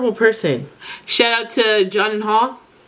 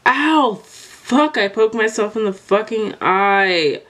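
pained yelp; 3 semitones higher, slower than usual. Real, not acted. Poked herself in eye.

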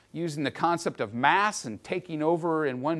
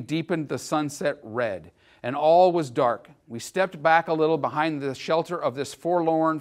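journal reading. Acted. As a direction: read the old journal to the class with weight. Reads soldier's journal aloud.

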